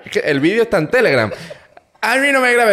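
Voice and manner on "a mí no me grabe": mocking the clerk in a much higher, louder voice; shrill mock official. Retelling the clerk's protest at being filmed, high mock squeal.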